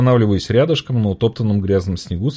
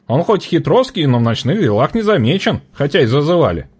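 angry trader; 7 semitones higher, 3 dB louder than usual. A narrator's reading. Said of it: "ярилась Маня Крановухая".

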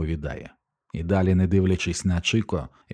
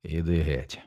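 colourless tone; 3 semitones lower, 5 dB quieter than usual. A narrator's reading. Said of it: "безбарвним тоном мовить батько".

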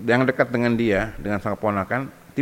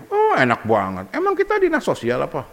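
mock angry wife; 2 semitones higher than usual. Wife snapping at husband who wants to help his nephew, mock angry. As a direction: scoff at the husband's request, pitch climbing. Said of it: "Itu yang marah".

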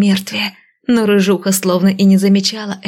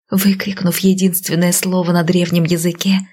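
plain reading voice

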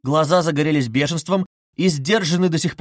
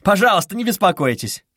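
exclaiming; 6 semitones higher, 4 dB louder than usual. Acted. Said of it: "вскричал Раскольников и вдруг захохотал".

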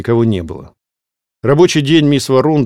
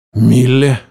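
hoarse, louder bark of her name; 5 dB louder than usual. A narrator's reading. Demon calls Mille from his office, hoarse and loud. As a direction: rasp the name out. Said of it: "хрипло произнёс демон".

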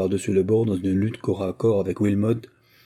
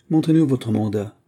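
gruff; 3 semitones higher, 4 dB louder than usual. Acted. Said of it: "d'un ton rogue".

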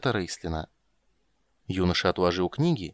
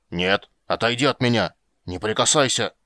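alarmed protest; 5 dB louder than usual. Acted. Dwarf fends off treatment.

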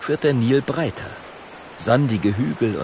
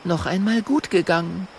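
put-on higher, relieved girl; Mathilda's voice; 8 semitones higher than usual. Mathilda after the hippo leaves, high and relieved.

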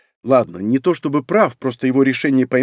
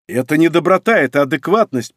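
louder, a touch of indignation; indignant; 2 semitones higher, 4 dB louder than usual. Acted. Lord mildly indignant at being called kind. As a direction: push back, mildly offended. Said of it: "почему-то возмутился я".

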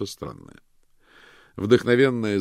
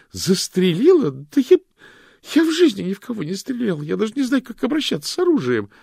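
high, loud frantic denial; panicked denial; 11 dB louder than usual. A narrator's reading. Loretta denies shooting anyone to the detectives, frantic. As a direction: deny it frantically.

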